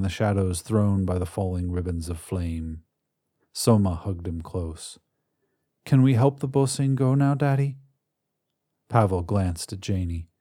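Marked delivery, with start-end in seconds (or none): 5.8-7.8 put-on high, hopeful little boy voice; a small boy asking his daddy; pleading child. Son asks his father to help the creatures, high child voice.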